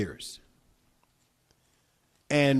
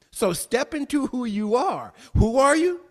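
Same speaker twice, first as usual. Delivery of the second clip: much higher and louder, calling out; rising call; 9 semitones higher, 6 dB louder than usual. Acted. Preacher calling out to the congregation, high and loud. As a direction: fling the question out to the room.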